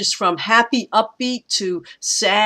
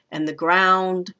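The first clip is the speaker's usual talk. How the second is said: GROUND stressed after light "and the"; anapest; slower than usual. Shown as a demonstration. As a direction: lean on "ground". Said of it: "are stressed just the same".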